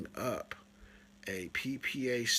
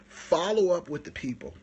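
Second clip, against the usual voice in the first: said out loud after the whisper; louder take of the same tip; loud repeat; 4 semitones higher, 5 dB louder than usual. Shown as a demonstration. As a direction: announce it to everyone. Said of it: "Here's the magic".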